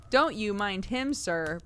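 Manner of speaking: a touch of a cheery landlady, slow; mildly cheerful, brushing off her husband's grumbling; cheery wife. Acted. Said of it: "with a cheery laugh".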